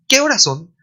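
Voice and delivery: ¿Qué horas son? said high and loud from the start, falling after horas; Spanish question tune. Shown as a demonstration. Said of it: "está siempre la tonalidad de pregunta".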